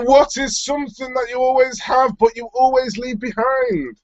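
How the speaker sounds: riddle reading. Acted.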